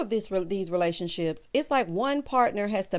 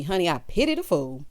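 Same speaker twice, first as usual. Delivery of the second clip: Mister T; 4 semitones lower than usual. Retold or imitated. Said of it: "still giving Mister T".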